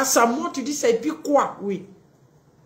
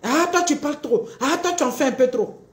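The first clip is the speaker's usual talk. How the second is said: mock reproach; 3 semitones higher than usual. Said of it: "Voici des phrases comme ça qui vont sortir".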